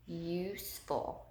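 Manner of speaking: "useful" said slowly with a drawn-out YOO; slow "useful", long U in USE, then ful; long U stressed. Shown as a demonstration. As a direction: stretch the first syllable of "useful". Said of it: "You hear that U".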